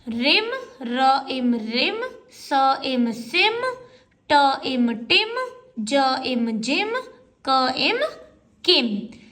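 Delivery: slow phonics blending, "र", "इम", then "रिम"; sounding out words. Shown as a demonstration. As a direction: stretch out the parts of "रिम", then join them. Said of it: "तो क्या हो गया?". (धीरे-धीरे ध्वनि जोड़कर "रिम" पढ़ना)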